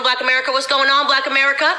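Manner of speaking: lightly mocking a put-on Southern accent, rising on Lordy; mock AOC Southern accent. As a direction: parody AOC pandering to Black voters, hamming it up a little. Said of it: "A O C now talks like us".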